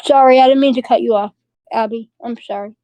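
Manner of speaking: speaking with candy in her mouth; mouth full. Real, not acted. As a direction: talk through a mouthful of candy. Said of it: "I have candy in my mouth".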